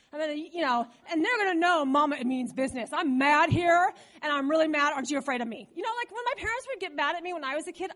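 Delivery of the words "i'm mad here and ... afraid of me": raised voice, stretched on MAD; acted parental anger, a bit louder; mock angry mom. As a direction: play a mildly angry mother laying down the law. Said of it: "I'm gonna raise my voice".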